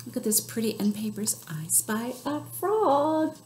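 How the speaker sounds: hushed whisper over the pictures. Real, not acted. Librarian to kids over the end papers, whispering. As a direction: whisper as if sharing a secret. Librarian showing book pages.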